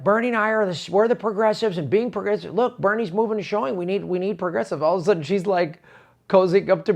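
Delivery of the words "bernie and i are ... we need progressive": higher, eager campaign-speech voice; mock Warren. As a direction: ham up a pandering politician.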